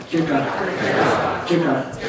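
"Jika" with a retroflex, curled-back tongue; curled tongue heavy consonants. Shown as a demonstration. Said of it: "Curl your tongue back, retroflex your tongue".

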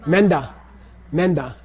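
MENDA as one word, nasal run into the D; slurred together. Shown as a demonstration. Teacher gives Tibetan word for gun, slurred Menda. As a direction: slur "Menda" with no break before "da". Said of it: "They slur it".

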